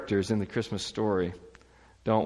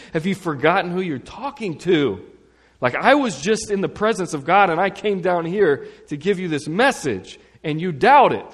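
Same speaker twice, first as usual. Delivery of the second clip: raised, incredulous, louder and higher; indignant angel; 7 semitones higher, 6 dB louder than usual. Retold or imitated. Preacher voicing the angel's indignation at Zachariah. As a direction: scold him like an offended messenger.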